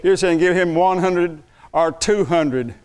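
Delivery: chuckling through the words; amused, half-laughing complaint. Real, not acted. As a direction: laugh at your own stinginess. Laughing at his own reluctance.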